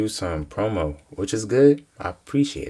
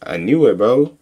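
loud triumphant call; loud told-you-so; 9 dB louder than usual. Real, not acted. Reactor who predicted the swipe, loud told-you-so. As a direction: crow that you called it.

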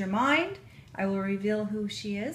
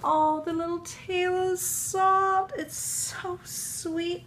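tender cooing; 9 semitones higher, slower than usual. Real, not acted. Cooing over bunny.

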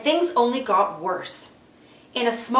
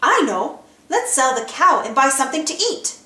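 eager; 4 semitones higher, 3 dB louder than usual. Acted. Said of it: "Mickey eagerly cried".

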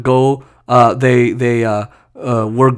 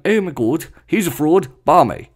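quieter mock British accent; put-on British accent; 4 dB quieter than usual. Joking Briton calling him a fraud, British accent. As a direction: play a disapproving Brit. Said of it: "I'm sorry for my British accent".

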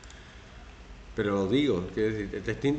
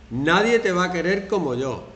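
possessive manipulator; 7 semitones higher, 7 dB louder than usual. Retold or imitated. Quoting a manipulator.

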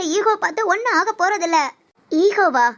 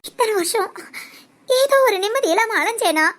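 crying; 2 semitones higher than usual. Acted. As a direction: voice breaking into tears while pleading. Pleading to be let go. (அழுகையுடன் கெஞ்சுதல்)

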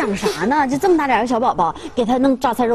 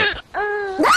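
short high shriek; startled scream; 9 semitones higher than usual. Acted. Finding a baby unexpectedly, startled scream. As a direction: gasp out a high cry of shock.

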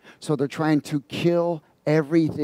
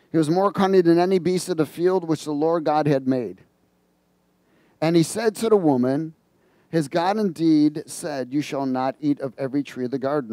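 scripture reading; 2 semitones higher than usual. Acted. Reads Genesis aloud.

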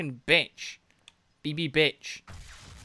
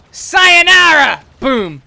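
long, much higher, louder battle cry; gleeful yell; 12 semitones higher, 17 dB louder, much slower than usual. Pretend. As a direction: scream it as you dive in. Kamikaze crash into enemies.

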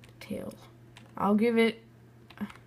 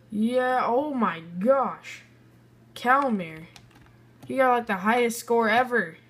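higher and louder, thrilled; excited cheer; 4 semitones higher, 4 dB louder than usual. Real, not acted. Player seeing the winner's score, excited cheer. Results revealed.

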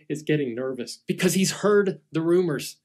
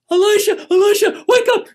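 much higher and louder, frantic; panicked servant; 9 dB louder than usual. Acted. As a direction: shake him awake in terror. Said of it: "Hank is freaking out".

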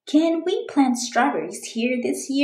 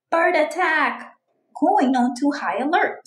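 alarmed cry; 5 semitones higher, 3 dB louder than usual. Acted. Alarm call, higher louder.

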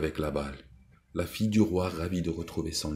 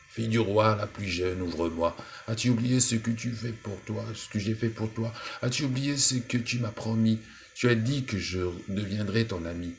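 higher, insistent toad calling; reproachful toad; 6 semitones higher than usual. Acted. Toad reproaches the princess at the door, higher and insistent. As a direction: remind her of the broken promise.

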